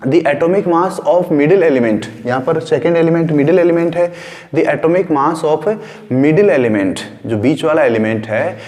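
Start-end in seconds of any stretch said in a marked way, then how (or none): 0.1-2.3 slow dictation. Shown as a demonstration. Teacher dictating the law. 4.5-7.0 slow dictation. Shown as a demonstration. Teacher dictating the law.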